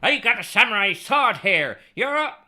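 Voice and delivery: a bad, over-the-top Japanese samurai accent with a whoop; mock Japanese accent. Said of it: "That's not very Japanese".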